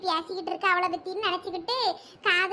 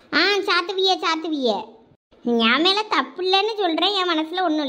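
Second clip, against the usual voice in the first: daring her, voice dropping lower; defiant taunt; 3 semitones lower than usual. Acted. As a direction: taunt her mother to go ahead. Daughter defies mother's threat.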